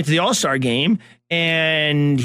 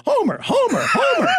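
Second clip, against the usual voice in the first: put-on very high eager child's cry of Homer; kid calling out. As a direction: yell the name like a thrilled young fan. Kid calling after anthem.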